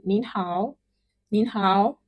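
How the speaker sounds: "Nin hao" with a rising "nin"; polite greeting. Shown as a demonstration. Teacher showing how to greet a business partner, politely. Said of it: "you can say".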